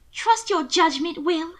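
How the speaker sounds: high, slow, drawn-out echo; breathed disbelief. A narrator's reading. Sister doubts her brother's judgment, breathed out in disbelief. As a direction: repeat it back in pained disbelief. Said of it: "she breathed".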